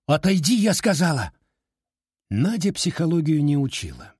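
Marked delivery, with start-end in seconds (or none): 0.1-1.3 high, loud hoarse croak; a girl croaking from the windowsill. A narrator's reading. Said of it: "хрипло каркнула".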